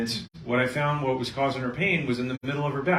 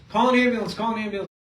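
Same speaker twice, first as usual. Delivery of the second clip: a higher, louder mock yell for help; retold scream; 9 semitones higher, 4 dB louder, faster than usual. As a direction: shout for an ambulance, raised and urgent. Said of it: "screaming at the top of their lungs".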